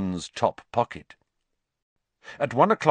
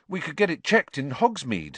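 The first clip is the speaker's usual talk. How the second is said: Ron voice; 7 semitones higher than usual. Acted. Ron's line voiced by narrator.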